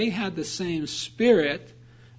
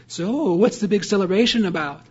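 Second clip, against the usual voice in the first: knowing, coy question; 3 semitones higher, 5 dB louder than usual. Retold or imitated. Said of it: "imagine him calling ... with a knowing smile".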